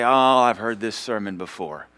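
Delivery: slow, dismissive mimicry of a churchgoer; mock know-it-all. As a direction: draw out the bored complaint, mockingly. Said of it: "that kind of attitude".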